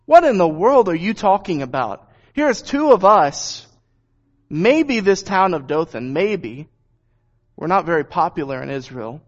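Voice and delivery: mock disbelief at a friend; lightly voiced exasperated servant; are you out of your mind; incredulous. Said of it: "my reaction ... would be look over and say".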